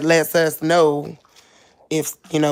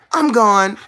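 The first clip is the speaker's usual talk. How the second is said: dog's reply; 4 semitones higher, 4 dB louder than usual. Acted. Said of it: "She's like".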